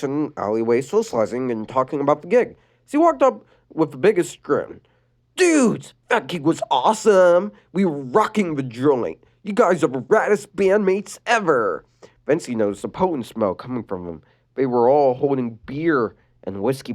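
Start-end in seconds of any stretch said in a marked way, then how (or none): 5.3-11.8 Luna voice. Acted.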